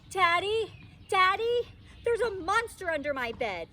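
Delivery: high, loud, urgent calls for daddy; a scared little girl yelling for her dad; child shouting to her father about the monster, high and excited; excited calling. Acted.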